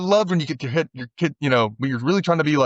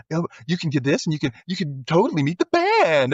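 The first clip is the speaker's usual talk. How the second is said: mild mock Valley Girl, slightly raised pitch; Valley Girl accent; 3 semitones higher than usual. Prank caller offering a meet-the-band prize, mock Valley Girl accent. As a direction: lightly imitate a Valley Girl. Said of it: "she puts on that Valley Girl accent".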